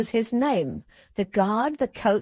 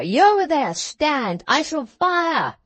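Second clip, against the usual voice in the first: threatening shout; 6 semitones higher, slower than usual. A narrator's reading. Guard threatening rider.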